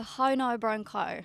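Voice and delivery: lilting Irish accent on how now brown cow. Shown as a demonstration. Irish singer demonstrating an Irish accent for the host. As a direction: say it with a broad Irish lilt. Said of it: "the sentence that we can say to do the best Irish accent".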